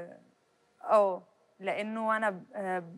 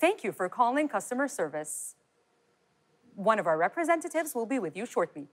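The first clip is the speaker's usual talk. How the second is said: slow, polished customer service voice; phone line recording; slower than usual. Shown as a demonstration. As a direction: read it like an automated hotline. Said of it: "قولي لي بالإنجلش كمان". (صوت رد آلي بطيء لخدمة العملاء)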